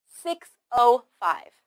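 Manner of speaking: "Six oh five" slowly, each word distinct; measured word-by-word time reading; slow model reading. Shown as a demonstration. Teacher repeats time slowly.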